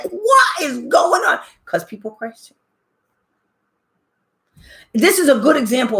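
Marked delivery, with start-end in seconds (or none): 0.0-1.4 slow, higher cry of disbelief; mock angry brother. Brother calling from Alaska, exasperated and slow. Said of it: "he was so angry".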